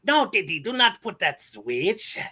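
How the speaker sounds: a lofty little scientist lecturing; Dexter impression. Dexter scolding his sister about science, high and haughty. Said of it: "here we go".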